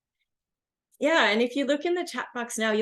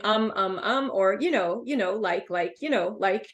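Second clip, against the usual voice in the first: imitating filler phrases. Shown as a demonstration. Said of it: "the same problem as interjecting".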